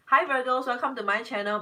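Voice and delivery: mock channel intro. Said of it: "that, that standard script".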